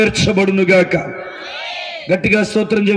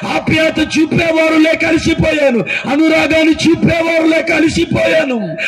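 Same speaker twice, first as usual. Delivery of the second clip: raised, lamenting preaching voice; weeping woman's plea; 5 semitones higher than usual. Retold or imitated. Preacher voicing a weeping woman pleading with him, a mild lament. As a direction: pour out her weariness line after line. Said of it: "ఏడుస్తూ ఉంటారు".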